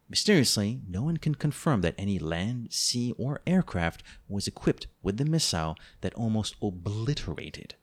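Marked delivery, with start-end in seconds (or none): 6.1-7.7 sexy. Acted. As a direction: linger seductively, trailing down to a murmur. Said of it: "making this as sexy as I can".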